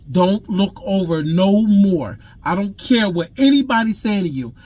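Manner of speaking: stern fatherly order. Retold or imitated. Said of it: "I guess from my voice".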